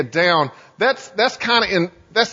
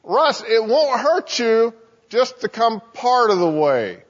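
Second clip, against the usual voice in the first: higher, sing-song coaxing; little tempting voice; 4 semitones higher than usual. Acted. Satan tempting Russ to come closer, coaxing little voice. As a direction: coax him gently along in a higher little voice. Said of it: "this little voice that says".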